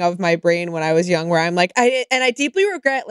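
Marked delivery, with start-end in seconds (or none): 1.8-3.1 higher, stiffly recited apology snippet; scripted tone. Retold or imitated. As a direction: mimic your own rehearsed apology. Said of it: "this scripted, like, tone".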